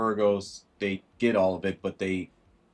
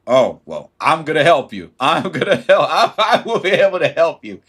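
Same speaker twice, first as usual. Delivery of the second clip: eager helper; 6 semitones higher, 9 dB louder than usual. Acted. Eager offer to help viewer.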